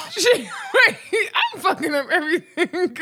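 high, loud laughing curse; cracking up at own mistake. Real, not acted. Laughing after flubbing the intro.

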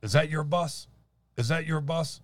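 mild imitation of a pushy questioner; lightly voiced woman asking. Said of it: "and she's like".

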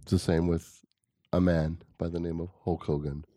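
lightly voiced documentary storyteller with long pauses; Morgan Freeman voice. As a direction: recount it gravely, pausing between phrases. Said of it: "Are you doing, like, Morgan Freeman voice?".

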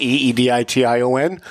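E D I T I O N spelled one letter at a time, each letter said separately. Shown as a demonstration. Radio host spells the search word for listeners, letter by letter. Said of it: "type in the word edition with an E".

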